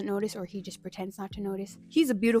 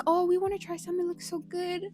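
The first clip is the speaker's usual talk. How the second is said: high-pitched imitation of small siblings; little kids pleading; 9 semitones higher than usual. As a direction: mimic eager little children begging for a taste. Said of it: "they were, like, little babies".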